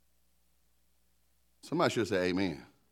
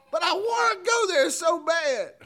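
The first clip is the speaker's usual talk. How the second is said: mock squeal. Pastor joking that he badly wants to go off topic, mock squeal. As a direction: squeal it like a hammed-up plea. Pastor jokes about resisting a tangent.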